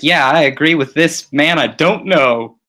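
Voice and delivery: lightly voiced commoner in the crowd; hint of a commoner chiming in; agreeing commoner. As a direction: play a planted bystander agreeing. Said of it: "two commoners who are like".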